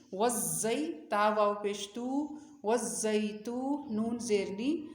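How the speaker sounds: slow, drawn-out letter-by-letter chant; measured tajweed drill with lengthened vowels and nasals; Quran spelling recitation. Shown as a demonstration. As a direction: spell out and join syllables with long held sounds.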